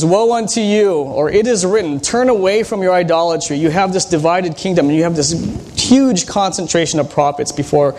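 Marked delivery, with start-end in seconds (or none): 0.0-3.6 a hint of a prophet warning; prophet's warning.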